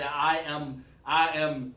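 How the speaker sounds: over-formal wording, hammed up; mock a stilted, proper way of talking; mock stiff formality. Shown as a demonstration. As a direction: put on formal speech as a joke. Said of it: "black people don't talk like that".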